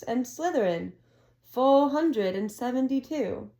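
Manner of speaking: a hint of a ceremonious headmaster; Dumbledore announcing. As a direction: announce the scores like a proud old wizard. Dumbledore announcing house points.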